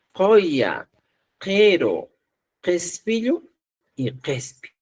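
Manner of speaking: each word ("Callo", "Cata", "Kella", "Cosco") spoken separately and clearly, using only a, e and o; three-vowel Quechua words. Shown as a demonstration. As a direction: list the example words one by one for the class. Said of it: "Por ejemplo, decimos". (lista de palabras con solo tres vocales)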